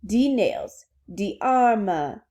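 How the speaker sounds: put-on emphatic French-accented recital. Princess repeating words for Alice, French accent. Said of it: "hear this in a French accent".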